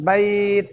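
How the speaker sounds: বাইত with a light ত bounce; stopped ত. Shown as a demonstration. Teacher repeats বাইত for students. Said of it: "এরা আটকা দিলেন".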